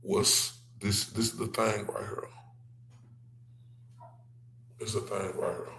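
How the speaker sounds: soft, low whispered reveal; hushed whisper. Real, not acted. Showing viewers the thing, whispered softly. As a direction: lean in and whisper it.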